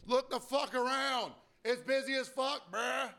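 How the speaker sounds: high, slow put-on voice of exasperation; exasperated retort. Bartender voices his retort to an impatient customer, high exasperated mock voice. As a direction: pitch it way up and drag it out, fed up.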